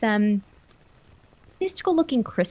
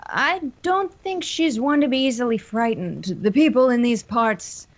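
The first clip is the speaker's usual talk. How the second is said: measured in-character voice, a little raised; lightly voiced Elias. Game master as Elias warning the visitors, lightly voiced character. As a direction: lightly play a local man giving a warning. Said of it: "Elias speaks up and says".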